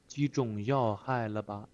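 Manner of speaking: put-on old official's tone. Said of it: "try to feel, uh, the tone of this old man".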